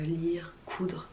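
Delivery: usual speaking voice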